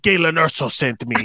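lightly put-on Mexican accent; Diego Luna impression. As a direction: mimic an actor's Mexican-accented line, understated. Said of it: "Diego Luna's like".

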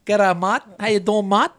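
hammed-up mock-Greek greeting; bad Greek accent. Shown as a demonstration. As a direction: do a deliberately terrible Greek accent. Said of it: "that is a terrible Greek accent".

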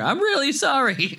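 high, overdone pleading sorry. Shown as a demonstration. Villain forced to apologize, mock over-sincere high plea. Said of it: "No, more sincere".

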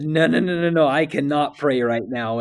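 a touch of a tearful no; retold protest. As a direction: push back, mock-panicked.

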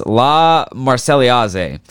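La Marseillaise sounded out slowly and clumsily; butchered French. Shown as a demonstration. Host attempts the French anthem's title, La Marseillaise butchered slowly. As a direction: labour through "La Marseillaise" slowly, mangling the French. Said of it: "I'm gonna fucking butcher this".

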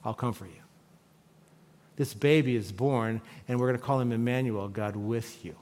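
put-on soft, hushed and tender, like soothing a baby; gentle motherly hush; tender mother's comfort. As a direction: murmur it as a mother quieting her child. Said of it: "Like a mother comforts her child".

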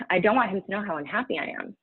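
hurried, tearful retake of the quote; fast and fighting back tears; choked-up repeat. Real, not acted. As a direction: push the words out fast before the tears come. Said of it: "I think I'm gonna cry".

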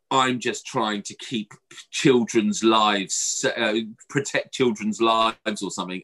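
very slow, mock-pious; mocking the warden. Imitating the warden's excuse with mockery. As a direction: drag out her excuse mockingly.

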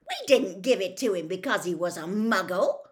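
loud indignant protest. A narrator's reading. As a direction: protest the accusation loudly. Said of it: "said Fred indignantly".

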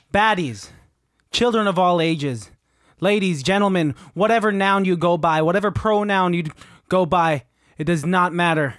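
hammed-up infomercial pitch to the baddies; mock sales pitch. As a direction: sell the candy like a showman. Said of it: "Let's sell the M and M's".

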